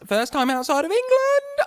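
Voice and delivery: high, hammed-up Scottish accent. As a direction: gasp it out like a comic Scot. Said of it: "we're gonna be trying this accent".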